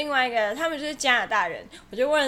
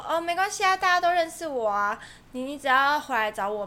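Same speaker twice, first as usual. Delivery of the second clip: breezy shopkeeper. Retold or imitated. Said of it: "然后他就说".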